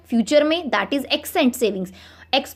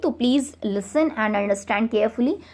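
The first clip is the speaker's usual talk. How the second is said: ordinary talk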